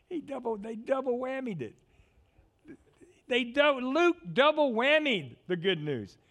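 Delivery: 高く大きく、笑いながら熱く語る; 喜びが抑えきれないように; excited laughing preaching. Real, not acted.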